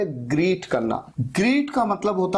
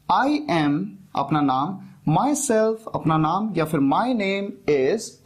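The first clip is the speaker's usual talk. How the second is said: slow model phrases; much slower than usual. Shown as a demonstration. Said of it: "चार तरीके लोग use करते हैं".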